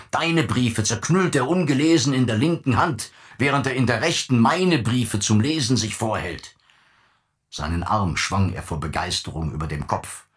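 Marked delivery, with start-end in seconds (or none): 0.1-6.5 higher and louder, triumphant scorn; father gloating to his son, rising scorn; gloating rant. Acted. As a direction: crow it over him, voice climbing.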